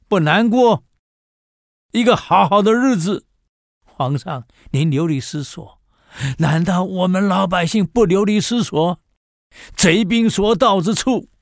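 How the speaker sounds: put-on old man confronting the fleeing emperor, loud and indignant; impassioned rebuke. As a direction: hurl the people's suffering at the emperor.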